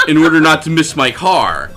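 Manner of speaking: lightly voiced creepy nerd; breathy nerd explaining himself; nerdy voice. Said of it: "a very sort of nerdy voice".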